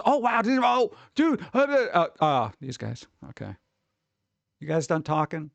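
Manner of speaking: high, gushing fanboy squeal that sours to impatience; mock excited. Viewer gushing over actors, then losing patience, high and excited. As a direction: gush like a starstruck fan, then cut it off.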